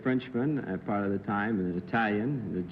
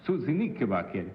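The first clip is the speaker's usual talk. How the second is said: "Susie Knickerbocker" as /usi nikebake/, Italian vowels on every syllable; a light Italian take on "Susie Knickerbocker"; Italian accent. Shown as a demonstration. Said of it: "Say Susie Knickerbocker in Italian".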